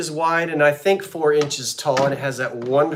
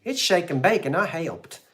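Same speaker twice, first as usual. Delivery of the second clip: mock Tootsie voice; 3 semitones higher than usual. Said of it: "I sound like Tootsie".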